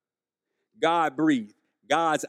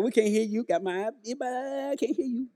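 laughing dismissal; 3 semitones higher, 5 dB quieter than usual. Retold or imitated. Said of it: "And we're like".

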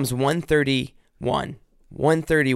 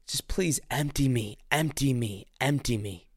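hushed pleading prayer; 2 semitones lower, 6 dB quieter than usual. Retold or imitated. Praying alone on the floor, softly pleading. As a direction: plead quietly as if lying on the floor.

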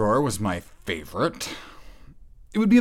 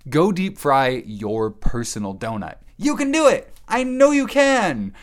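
mock pep talk; 4 semitones higher, 4 dB louder than usual. Cheering the listener on.

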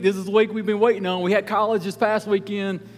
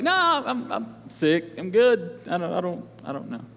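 fake excuse. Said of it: "Can I be like".

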